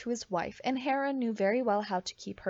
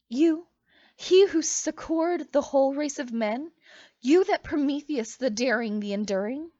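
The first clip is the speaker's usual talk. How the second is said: amazed; 3 semitones higher, 5 dB louder than usual. Acted. Io recognizes Prometheus.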